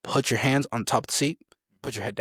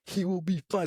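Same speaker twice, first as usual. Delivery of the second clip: screaming woman, imitated; 7 semitones higher than usual. Female sergeant calms rushing recruits, imitated high scream. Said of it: "Some female screaming out".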